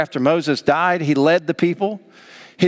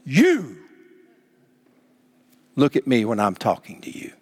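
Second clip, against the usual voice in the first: emphatic YOU, pause, controlled scolding; emphatic mom; 6 semitones lower than usual. Retold or imitated. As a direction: imitate a stern Southern mom demanding attention. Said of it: "so emphatic, it would scare anyone".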